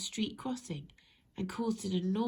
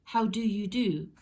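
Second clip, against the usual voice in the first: polite greeting; 6 dB louder than usual. Acted. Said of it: "instead of".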